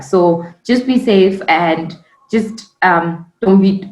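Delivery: slow words broken by hiccups. Real, not acted. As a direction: push through the hiccups. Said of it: "sorry, the hiccups".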